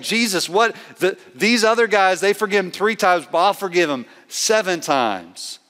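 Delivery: lightly acted emphatic boast. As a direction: make an emphatic, one-upping offer as an eager disciple. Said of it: "if Peter was being emphatic".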